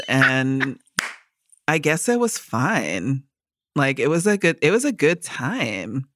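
indifferent Californian uptalk; unimpressed Californian. Shown as a demonstration. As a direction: sound underwhelmed in a Californian accent. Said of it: "unimpressed by the world".

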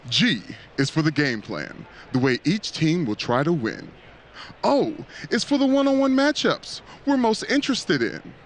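dramatic, rising poem reading; Edgar Allan Poe voice. Acted. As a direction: read it like a spooky poet. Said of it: "get my Edgar Allan Poe voice on".

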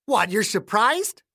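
put-on touchy accented old-timer; prickly old man. Voices gruff caretaker Clayton.

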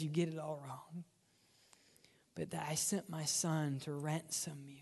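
soft, low voice of God; God's quiet correction. Acted. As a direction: correct them softly, voice dropped low.

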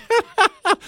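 high-pitched burst of laughter; gleeful laugh. Real, not acted. Dad telling of teasing his boys, high gleeful laugh. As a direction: crack up at your own prank. Amused by his own prank.

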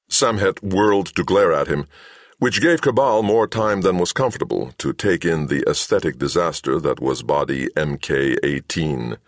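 plain reading voice

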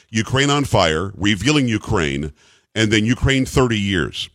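spacing the titles out for clarity; slow, careful repeat. Shown as a demonstration. Host repeating titles for listeners, slow and deliberate. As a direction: slowly spell out each title. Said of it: "I did reiterate some things".

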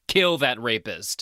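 KILL THAT RAPIST slow, each word weighted; all-caps emphasis. Retold or imitated. Reading out own viewing notes, all-caps emphasis. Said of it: "I wrote in all caps".

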